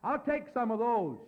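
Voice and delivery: a drunk man's public remark, mildly hammed-up; loud voice. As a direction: say it out for the whole room. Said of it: "he said in a loud voice".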